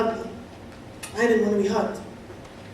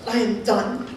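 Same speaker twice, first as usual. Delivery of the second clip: retold scream; 5 semitones higher, 6 dB louder than usual. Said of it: "screamed to God at the top of my lungs".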